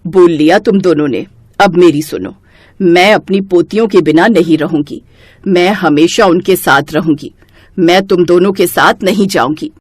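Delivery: put-on an old woman who won't be moved; firm old grandmother. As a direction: grandmother telling her son and his wife she stays. Grandma refuses to leave.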